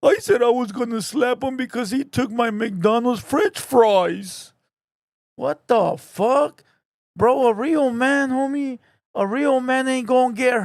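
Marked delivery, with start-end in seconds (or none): 0.0-4.5 lightly voiced sulky child; a hint of a whining kid; mock tantrum, barely changed from own voice. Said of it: "a full-blown child out here talking about".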